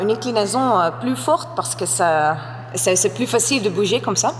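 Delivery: non-native French, careful and halting; a learner's accent in French; foreign accent in French. Real, not acted. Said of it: "mon français n'est pas très bien".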